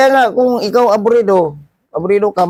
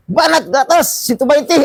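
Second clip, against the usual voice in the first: retold yell; 6 semitones higher than usual. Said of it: "Sigaw ba?".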